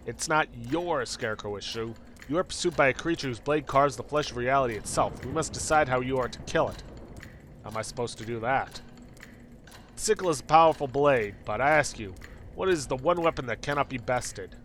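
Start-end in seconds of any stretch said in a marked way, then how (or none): 0.1-6.8 lightly portentous cosmic being; a touch of solemn prophecy; End of Time. Acted. Cosmic being warning the hunted player, lightly portentous. 10.0-14.5 grand riddling cosmic being; End of Time. Acted. Cosmic being testing the player, grand portentous riddle.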